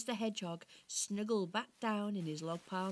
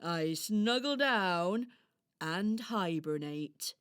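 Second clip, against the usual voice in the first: slow, drawn-out storybook hedgehog; friendly hedgehog character; 6 dB louder, much slower than usual. Acted. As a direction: explain it cosily to a little friend. Voices Harris the hedgehog.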